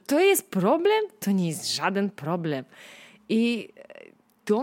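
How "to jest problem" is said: higher, louder scoffing question; scoffing disbelief. Acted. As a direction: laugh off the problem. Dismissing yesterday's problems.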